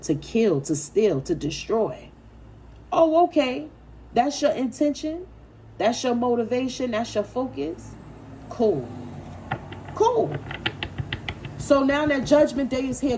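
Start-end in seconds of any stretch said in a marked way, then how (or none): 2.9-7.9 rising, mock-surprised questions; sarcastic disbelief. Reader mocking the people who wronged Libra, sarcastic. 9.9-10.3 "Cool." jumps up high and bright; mock-chirpy cool. Reader taunting the wrongdoers, sarcastic high "Cool.".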